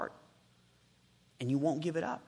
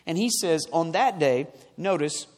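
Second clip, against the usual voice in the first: raised, emphatic preacher's voice; forceful preaching; 2 semitones higher, 6 dB louder than usual. Acted. Preacher announcing the coming kingdom, forceful. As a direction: proclaim it firmly, phrase by phrase.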